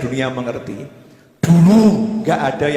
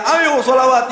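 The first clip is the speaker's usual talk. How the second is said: high, louder mock call to the crowd; imitating a rallying shout; 9 semitones higher, 3 dB louder, slower than usual. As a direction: rouse the congregation to sing. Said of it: "penyanyinya teriak-teriak". (seruan lantang menirukan seorang penyanyi sholawat)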